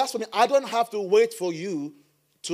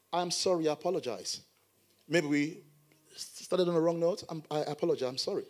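humble apology; 2 semitones lower, 5 dB quieter than usual. Shown as a demonstration. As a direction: model a gentle reconciling apology. Models a humble apology again.

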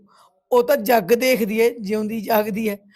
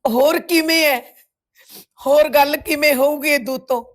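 upset, higher-pitched retort; tearful protest; 3 semitones higher, 3 dB louder than usual. Acted. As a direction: protest as if close to tears. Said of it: "ਰੋ ਨਾ". (ਰੋਣਹਾਕੀ ਆਵਾਜ਼ ਵਿੱਚ ਇਤਰਾਜ਼)

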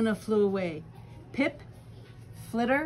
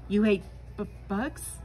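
stuttering. Acted. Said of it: "stuttered one".

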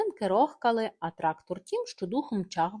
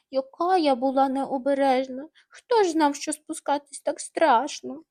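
complaining; 5 semitones higher, 4 dB louder than usual. Acted. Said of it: "жалілася вона".

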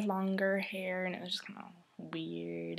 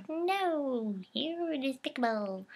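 scornful Jane; 4 semitones higher, much slower than usual. Retold or imitated. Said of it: "she's like".

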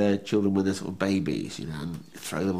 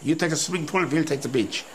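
hammed-up German accent, higher pitched; mock German tourists; 5 semitones higher than usual. German tourists claiming the pool in a mock German accent. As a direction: lord it over the British at the pool in German. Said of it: "they were all Germans, saying".

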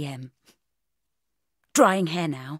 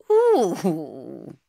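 purred ooh; 4 dB louder than usual. A narrator's reading. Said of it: "I purred".

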